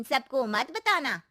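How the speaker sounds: drawn-out, meaningful warning; slow ominous warning. Acted. Aunty slowly warning Shweta to tell no one, ominous. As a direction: lean on every word like a secret.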